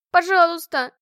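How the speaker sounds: high, very loud begging shriek; shrieking plea. Acted. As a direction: shriek please in panic. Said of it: "верещала я". (визгливая мольба)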